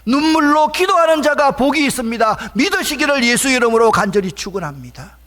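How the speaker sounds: loud, high fervent blessing; impassioned preaching. Real, not acted. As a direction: proclaim it over the congregation at full force.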